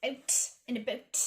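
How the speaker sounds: mock Canadian accent. Shown as a demonstration. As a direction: exaggerate the Canadian "out and about". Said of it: "make fun of my own Canadian".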